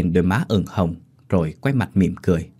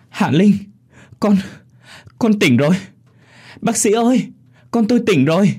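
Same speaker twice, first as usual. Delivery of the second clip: joyful mother; 11 semitones higher than usual. Acted. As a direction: cry out in relief as she wakes. Mother sees daughter wake.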